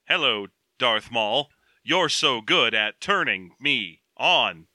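slow, low, lovestruck sigh of a voice; a hint of a doting Smithers; swooning Smithers. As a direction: coo it like a smitten assistant. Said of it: "Smithers and Mister Burns type relationship".

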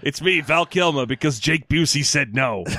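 lightly put-on celebrity voice; a faint hammed-up actor voice; Val Kilmer impression. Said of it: "This is not what Val Kilmer sounds like".

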